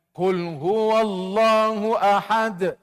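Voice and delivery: slow chant ending "ahad" on a short bouncing dal; don't stretch "ahad", just bounce the dal; ahad not drawn out. Shown as a demonstration. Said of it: "jangan tarik". ("ahad" jangan ditarik, pantul sahaja)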